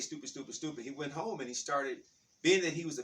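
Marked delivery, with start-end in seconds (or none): 0.0-0.8 self-reproach. Retold or imitated. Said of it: "he said".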